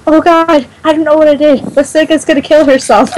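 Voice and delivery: retold panic. Imitating a friend who came rushing in, mock panicked. Retelling Luke's panicked plea for help.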